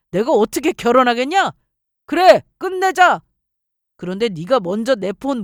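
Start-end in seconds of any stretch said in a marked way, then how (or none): 2.1-3.2 louder, higher, slow and furious; angry outburst. Acted. Boyfriend ending the engagement in a loud furious burst. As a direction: slam the door on the engagement.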